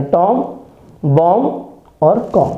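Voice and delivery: टॉम, बॉम्ब, कॉम each ending on m; silent b. Shown as a demonstration. Teacher lists examples, टॉम, बॉम्ब, कॉम with silent b. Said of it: "बी को silent कर देना है".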